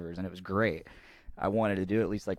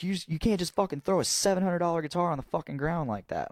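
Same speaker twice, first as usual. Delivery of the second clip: angry drummer; 10 semitones higher than usual. Retold or imitated. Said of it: "he's like".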